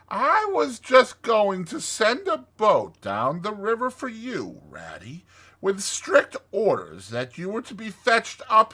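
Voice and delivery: high, gushing excited welcome; excited Toad. Acted. Toad presses friends to come inside, excited.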